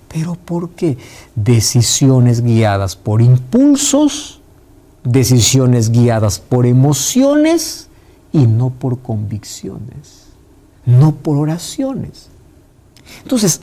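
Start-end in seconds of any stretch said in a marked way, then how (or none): 1.4-12.3 each word laid down slowly; slow emphatic. Acted. Preacher driving home his point, slow and deliberate. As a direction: spell out the warning slowly.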